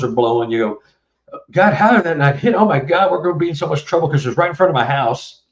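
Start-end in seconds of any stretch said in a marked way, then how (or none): 1.5-5.4 put-on mildly panicked kid, higher and hurried; retold worry. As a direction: blurt it out like a kid fearing trouble. Acted kid's panic after near miss.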